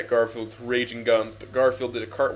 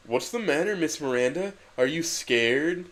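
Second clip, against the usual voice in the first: sassy; 4 semitones higher than usual. Acted. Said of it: "asked Garfield sassily".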